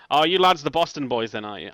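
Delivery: brief attempt at an Irish accent; thick Irish accent. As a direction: try an Irish brogue for a game character. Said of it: "like, a really thick Irish accent".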